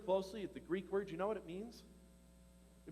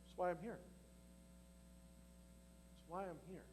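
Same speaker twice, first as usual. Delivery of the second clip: much softer, quietly certain; soft, settled Jesus; 13 dB quieter than usual. Acted. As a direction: let it fall away to almost nothing. Jesus quoted, dropping softer.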